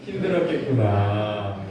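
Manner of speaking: slow, tender comfort; gentle empathy. Shown as a demonstration. Pastor leading people to comfort the person beside them. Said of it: "옆 사람에게 말해보세요".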